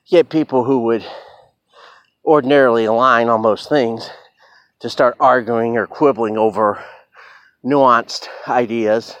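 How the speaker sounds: breathless after a bike ride; out of breath. Real, not acted. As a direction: talk while catching your breath. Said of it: "Sorry, I'm out of breath".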